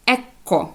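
«екко» with a held hard k in the middle; «екко» said clearly, c doubled and read as k. Shown as a demonstration. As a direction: model «екко», pausing on the double k. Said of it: "вона буде читатися як".

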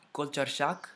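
"culture shock" in a Spanish accent, like "kolchor shak"; Spanish vowels on "culture shock". Real, not acted. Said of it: "I said that with a Spanish accent".

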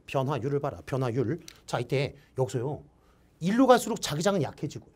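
ordinary delivery

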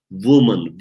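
"woman" begun like a V, as "vumın"; woman with V-like start. Shown as a demonstration. Teacher shows W at a word's start, "woman" as "vumın". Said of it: "V gibi çıkarıyoruz".

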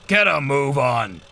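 loud, bossy shout; impatient shout. Acted. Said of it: "he shouted".

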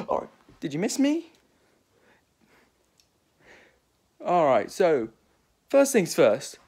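lightly put-on British accent, Doctor Who scene; playful Doctor Who reenactment in a British accent. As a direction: act out the Doctor and his companions in a British voice. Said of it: "Why am I having a British accent".

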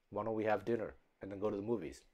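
low, soft, fast robotic monotone; no feeling, just words. Retold or imitated. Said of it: "sounds like a robot".

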